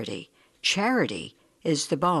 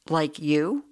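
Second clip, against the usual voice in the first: "Like you?" with a rise on "you"; questioning. A narrator's reading. Beggar querying the self-made householder, mildly questioning. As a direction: lift "you" into a mild query. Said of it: "I queried".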